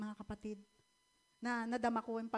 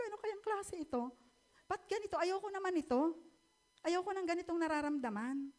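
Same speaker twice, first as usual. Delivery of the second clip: higher, pleading voice close to crying; distressed near tears; 5 semitones higher than usual. Retold or imitated. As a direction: let it rise as if about to cry. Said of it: "umiiyak na naman po ako". (mataas at nagmamakaawang boses na parang iiyak na)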